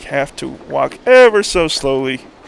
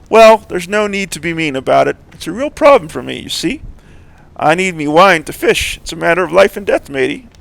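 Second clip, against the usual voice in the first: put-on louder old drunk fisherman voice; town drunk; 4 semitones higher, 7 dB louder than usual. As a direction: play the boozy old fisherman, a bit louder.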